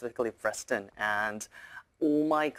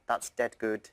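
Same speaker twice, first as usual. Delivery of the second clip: Manchester accent; 2 semitones lower than usual. Shown as a demonstration. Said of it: "in Manchester as well, people say".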